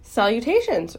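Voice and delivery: lightly voiced small creature's hello; thin voice. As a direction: sing out the greeting patiently. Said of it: "he heard again the thin voice".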